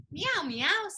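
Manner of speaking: a hint of a kitten; light meow. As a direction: meow for the children. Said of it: "says the".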